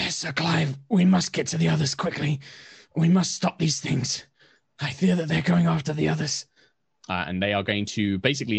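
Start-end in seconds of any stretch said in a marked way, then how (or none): 0.1-6.5 raised, louder rasping warrior voice. Acted. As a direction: call it out with a rasp, urgent and high. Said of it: "a more sort of rasping voice".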